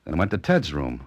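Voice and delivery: measured first-person storyteller voice; noir-tinged narration over music; radio drama narration. A narrator's reading. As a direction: narrate it like an old radio mystery.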